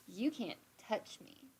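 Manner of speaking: smart-ass defiance. Retold or imitated. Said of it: "being the smart ass that I am".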